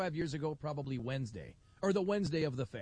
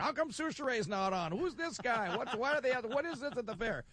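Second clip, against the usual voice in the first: puzzled callers; 7 semitones higher than usual. Retold or imitated. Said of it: "people calling the radio station".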